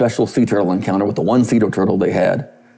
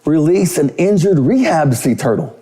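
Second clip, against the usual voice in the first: lightly voiced girl, higher; a touch of a girl with a bigger ask; mild girlish voice, pitched up; imitating a pop singer; 7 semitones higher than usual. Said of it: "She goes".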